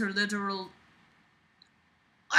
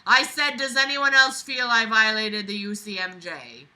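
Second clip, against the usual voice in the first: screeched even louder; 6 dB louder than usual. Acted. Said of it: "She screeched even louder".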